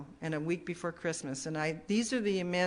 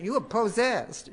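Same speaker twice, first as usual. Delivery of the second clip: put-on higher, slowed Southern accent; 5 semitones higher, 5 dB louder, slower than usual. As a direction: mimic a Southern lady, stretching the words. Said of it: "in that new, you know, that southern accent".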